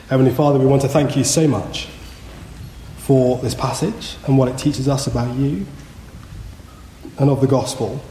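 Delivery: measured, subdued prayer voice; public prayer. Real, not acted. Preacher asks God for help to repent, prayerful. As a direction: lead the congregation gently in prayer.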